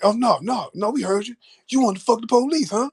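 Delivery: 조롱하는 경찰 흉내; taunting cop. Retold or imitated. Cop mocking him.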